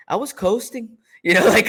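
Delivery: mock Liverpool accent. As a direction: quote Paddy in a Liverpool accent. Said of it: "accent for the day".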